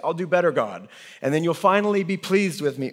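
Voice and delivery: loud, high, desperate promise to God; anxious pleading. Retold or imitated. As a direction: beg loudly to earn favour. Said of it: "Do you say".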